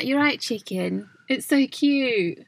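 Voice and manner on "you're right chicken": slow attempt at a Mancunian greeting; Mancunian accent. Showing a favourite Manchester greeting, in a Mancunian accent. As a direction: draw it out with an amateur Mancunian accent. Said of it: "My favourite thing about Manx is".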